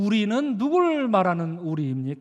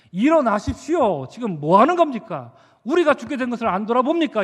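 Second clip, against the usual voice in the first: acted reproach, quickening at the end; resentful venting. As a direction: take it out on the sleeper in mild mock anger. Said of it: "이렇게 원망하고 화풀이를 하고 있었던". (원망하며 화풀이하는 말투)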